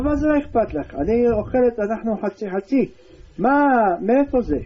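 a wife confronting her husband over the money, high and insistent. Acted. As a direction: demand an answer like a suspicious wife. Wife demands where goods came from.

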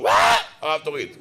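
shouted mock cheer for the rabbi; hammed-up yell from the crowd. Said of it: "כאילו יש איזה כפתור".

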